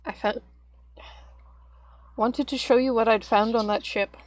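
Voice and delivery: talking while chewing; words round a crunchy bite; crunching chips. Real, not acted. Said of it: "Forgive the crunching".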